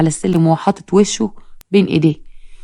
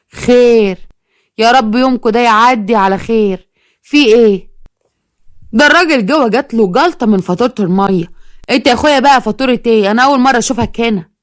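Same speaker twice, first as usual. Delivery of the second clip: lightly voiced mother, higher and mocking; suspicious housewife; 4 semitones higher than usual. The girl's mother lightly voiced, scornfully questioning the collector. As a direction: look him up and down and sneer.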